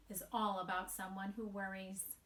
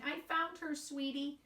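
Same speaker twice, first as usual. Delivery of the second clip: gentle reassuring voice, higher; kind grownup; 4 semitones higher than usual. Acted. A grownup reassuring Wemberly, gently higher. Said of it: "someone's saying".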